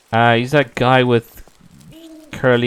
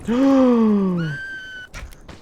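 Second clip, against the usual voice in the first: sharp gasp; 13 semitones higher than usual. Real, not acted. Player is caught off guard by something in the game and gasps sharply. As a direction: gasp in sudden fright.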